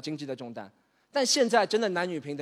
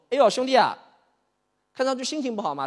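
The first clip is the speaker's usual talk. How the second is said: 1 pal's voice; 6 semitones higher, 3 dB louder than usual. Acted. Childhood friend Gouzi greets him.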